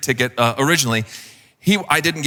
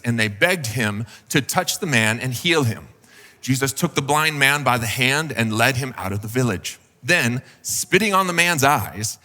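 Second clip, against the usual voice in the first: scripture reading. Acted. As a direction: read the passage steadily. Reads scripture passage aloud.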